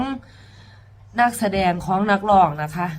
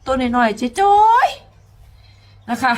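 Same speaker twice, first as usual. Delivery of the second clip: drawn-out high; 5 semitones higher, 6 dB louder, much slower than usual. Shown as a demonstration. Singer stresses how tiny the girl is, drawn out high. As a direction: stretch it out slowly in a higher voice. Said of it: "repeats tiny phrase differently".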